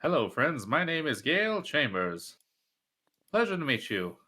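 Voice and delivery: bright, sing-song welcome voice; a cheery singsong salesman greeting; bright squeaky sing-song welcome. Pretend. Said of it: "whenever I use that voice".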